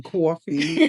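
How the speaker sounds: drawn-out New York "coffee"; New York accent. Pretend. Mom echoing her daughter, playing up her New York accent. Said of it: "the accent came back".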